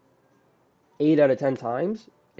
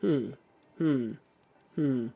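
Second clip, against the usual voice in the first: calm hmm; 3 semitones higher, slower than usual. Shown as a demonstration. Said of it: "be like this".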